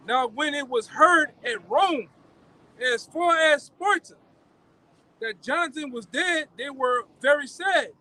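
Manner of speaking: slow, measured Bible reading; scripture reading. Acted. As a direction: read the verse slowly and solemnly. Reads First Maccabees aloud.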